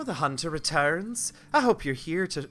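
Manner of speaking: character voice slipping into Irish; accidental Irish. Acted. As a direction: read it with an unintended Irish lilt. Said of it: "oh, that's Irish".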